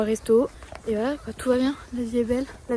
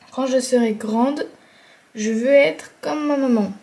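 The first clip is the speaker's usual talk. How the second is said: slow, louder slogan read-out; reading a slogan aloud; 5 dB louder than usual. Acted. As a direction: read it out slowly and deliberately. Reads out slogan printed on jumper.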